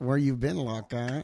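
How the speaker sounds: nasal voice, speaking through the nose. Asked to say the whole line again, in a nasal voice. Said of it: "Say the whole line though in your nasally voice".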